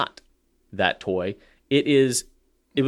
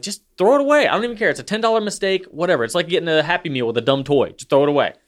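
higher, fed-up rant; exasperated dad; 5 semitones higher, faster than usual. Retold or imitated. Dad retells telling his crying son to bin the toy, exasperated. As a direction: wave it off, done with the whole thing.

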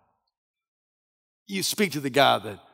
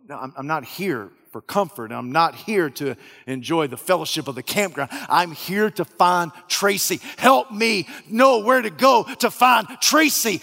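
growing frustration; 5 dB louder than usual. Acted. Searcher pleading to find Tracy, frustration building to loud. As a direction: press harder each line until it's almost a shout.

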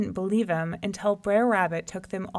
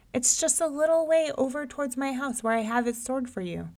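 placating Brer Rabbit; 6 semitones higher than usual. A narrator's reading. Rabbit soothes the impatient lion, nervously placating. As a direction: reassure the beast nervously.

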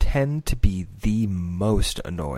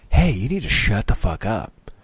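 mock harsh dad; 3 dB louder than usual. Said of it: "the kind of dad where I was like".

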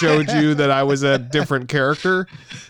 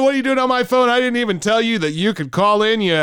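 annoyed host yelling at a caller; yelling radio host; 5 semitones higher, faster than usual. Pretend. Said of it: "all I did was start yelling".

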